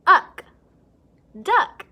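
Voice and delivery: "duck" pops out high and loud; excited blend. Shown as a demonstration. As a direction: punch "uck" and "duck" up high.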